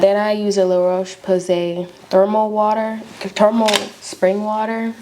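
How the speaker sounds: slight lisp from retainers; talking with retainers in. Real, not acted. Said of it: "if I sound like I got a lisp".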